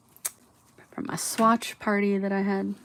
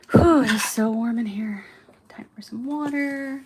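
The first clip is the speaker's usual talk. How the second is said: whispery and winded from the heat; too hot, puffing it out; overheated; 2 semitones higher than usual. Real, not acted. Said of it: "I am very overheated".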